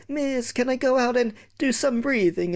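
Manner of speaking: high whining plea to teacher; whiny kid. Retold or imitated. Whiny pupil begs teacher to go breathe, whining. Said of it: "a whiny kid going".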